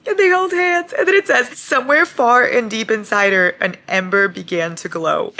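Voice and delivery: high, emotional squeal easing down; loud and overcome by the moment; overwhelmed gushing. Real, not acted. Overcome reading the reunion scene.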